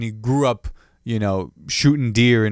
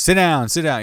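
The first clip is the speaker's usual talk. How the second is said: bailiff quote; 5 semitones higher, 4 dB louder than usual. Retold or imitated. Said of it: "the guy who says".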